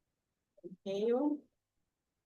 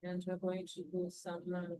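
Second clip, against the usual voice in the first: underwater; faster than usual. Real, not acted. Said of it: "it kinda sounds like you're underwater".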